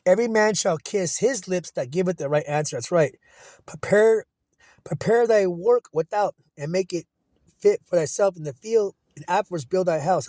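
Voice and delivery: slow, measured preacher's read; scripture reading. Acted. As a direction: recite the proverb with weight. Reads scripture aloud.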